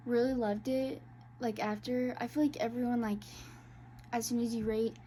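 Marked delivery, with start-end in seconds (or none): 2.2-5.0 out of breath. Real, not acted. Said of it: "I'm out of breath".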